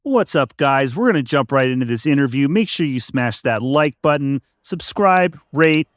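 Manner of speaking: hyped, fast YouTube host intro; YouTuber voice. Acted. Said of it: "in your best YouTuber voice".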